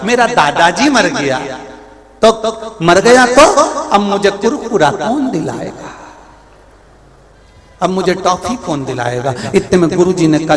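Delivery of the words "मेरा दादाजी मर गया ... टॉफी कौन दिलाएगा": lightly voiced tearful little grandson; a hint of a whining child; crying small child. Small boy mourning grandfather for his treats, mildly tearful child. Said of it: "छोटा सा बच्चा रो रहा था".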